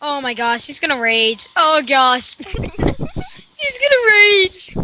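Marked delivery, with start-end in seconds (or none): 2.4-4.8 laughing. Real, not acted. Laughing at friend's gaming prank.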